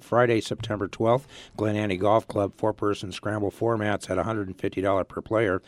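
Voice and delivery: hoarse, strained, nearly gone voice; losing voice. Real, not acted. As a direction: talk through a voice that's almost gone. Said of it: "'cause I have no voice".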